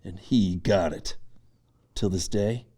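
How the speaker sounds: unvoiced whispered confession. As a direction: whisper it, wounded. Bitter confession about rival.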